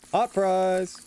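loud kitchen call. Acted. Kitchen call in food game.

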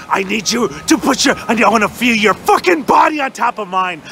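mock sultry low plea; low mock seduction. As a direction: drop low and ham the desire.

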